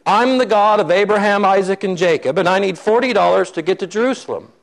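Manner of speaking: acted-out self-important declaration; proud declaration. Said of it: "stands up proudly and he says".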